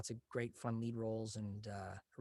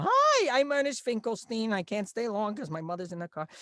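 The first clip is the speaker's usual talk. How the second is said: much higher, louder, nasal-free excitable nerd; hyperactive nerd voice; 10 semitones higher, 8 dB louder than usual. Retold or imitated. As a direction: play the jittery nerd who can't stop talking. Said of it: "I just came in and go".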